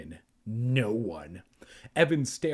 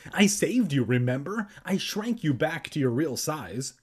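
bragging; 3 semitones higher than usual. Acted. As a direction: show off with a touch of pride. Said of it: "Kermit bragged".

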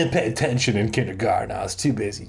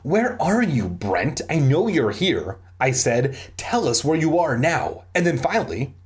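animated storybook reading with voiced dialogue; story narration. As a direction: read it out like a lively audiobook. Reads a story aloud.

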